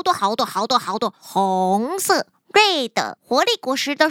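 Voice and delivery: bouncy, cheerful sloth voice; chirpy and full of pep; lively sister sloth. Acted. Energetic sister sloth explains.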